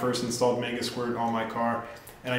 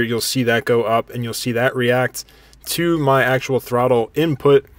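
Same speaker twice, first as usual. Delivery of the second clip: raised voice over a running engine; shouting over engine; 6 dB louder than usual. Real, not acted. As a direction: talk loud over engine noise. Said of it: "hear me talk over the engine".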